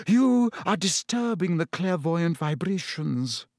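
high, airy reproach from a mystic seer; a dreamy seer scolding the class; Trelawney's voice. Acted. Trelawney's voice again.

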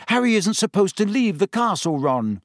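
lightly voiced young girl, anxious; a hint of a worried schoolgirl; Hermione. A narrator's reading.

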